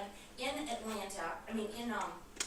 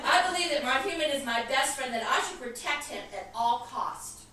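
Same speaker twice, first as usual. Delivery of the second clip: the dog's line, louder and breaking into laughter; laughing; 3 semitones higher, 7 dB louder than usual. Acted. Minister retelling the dog's answer to God, laughing.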